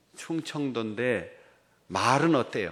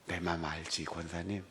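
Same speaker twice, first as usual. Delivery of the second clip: low, soft, held-in affection; understated reassurance, kept to yourself; undemonstrative; 5 semitones lower, 11 dB quieter than usual. Retold or imitated. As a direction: say it quietly, barely expressing the feeling. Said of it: "내 속은 그런데 이게 전달을 잘 못하니까".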